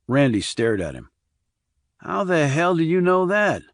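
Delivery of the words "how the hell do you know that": surprised. Acted. Randy startled.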